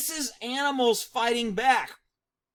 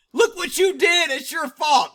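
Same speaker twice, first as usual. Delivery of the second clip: louder, higher indignant mock scolding; mock yell; 6 semitones higher, 6 dB louder than usual. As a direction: yell blame at the car like the herder. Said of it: "She's yelling at the car".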